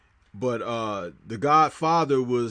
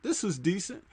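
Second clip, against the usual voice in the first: quieter, half to himself; softer musing repeat; 5 semitones higher, 7 dB quieter than usual. Retold or imitated. Viewer repeating the verdict quietly to himself. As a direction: nod it through under the breath. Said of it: "you could say".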